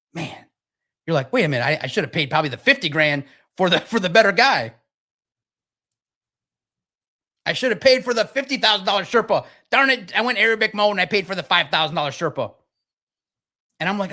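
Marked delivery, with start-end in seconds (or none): 1.3-12.5 a climber realizing he cheaped out; panicked. Retold or imitated. Panicking climber voiced by speaker.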